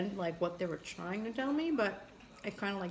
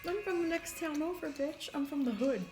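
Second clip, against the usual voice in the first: mock comeback; 7 semitones higher than usual.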